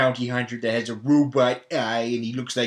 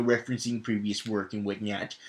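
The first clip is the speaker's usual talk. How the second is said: usual speaking voice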